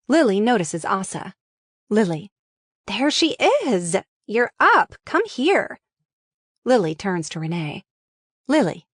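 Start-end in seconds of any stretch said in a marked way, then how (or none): 2.9-5.8 excited greeting. Acted. Lily greets Asa warmly.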